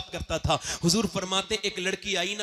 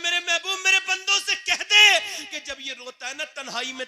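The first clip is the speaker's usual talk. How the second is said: voice of God; 10 semitones higher, 3 dB louder than usual. Retold or imitated. Voicing God's words.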